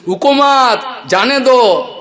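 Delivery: high, loud, slow stammered Hindi yell; a stuttering boss bellowing from the roof; stammering shout. Retold or imitated. Stammering Marwari boss shouting down to the servant. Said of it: "বাবু তোতলা স্বরে বলছে".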